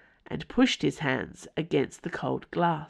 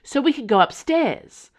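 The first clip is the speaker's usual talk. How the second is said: higher, louder breathless question; breathless demand; 9 semitones higher, 6 dB louder than usual. Acted. Aramis breathlessly demanding to go upstairs. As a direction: gasp it out, eager to run upstairs. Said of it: "Aramis demanded breathlessly".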